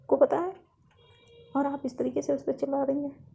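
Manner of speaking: a touch of motherly remonstrance; concerned scolding mother. Acted. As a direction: question your daughter with mild reproach. Mother questions daughter's angry outburst.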